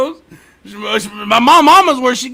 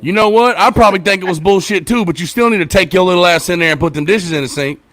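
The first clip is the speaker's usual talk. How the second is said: louder, no-nonsense dad talk; father firmly ordering his daughter to do the dishes; 2 semitones lower, 5 dB louder than usual. Retold or imitated. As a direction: lay down the law to the kid. Father scolding daughter, retold.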